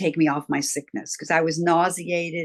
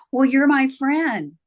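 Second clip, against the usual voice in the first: put-on slow, higher, louder childlike insistence; imitated child pleading; 8 semitones higher, 6 dB louder, slower than usual. Small girl insists to Robbie he is hers, slow higher plea. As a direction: lean on my as a child holding on. Child begging imaginary friend stay.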